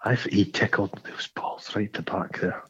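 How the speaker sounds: hushed cheeky whisper. Acted. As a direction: whisper it like a naughty secret.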